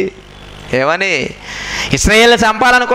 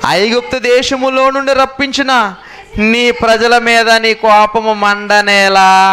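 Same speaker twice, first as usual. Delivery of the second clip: Moses pleading; 3 semitones higher, much slower than usual. Retold or imitated. Moses begging God to spare Israel, slow and imploring. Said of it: "బతులాడుతున్నాడట".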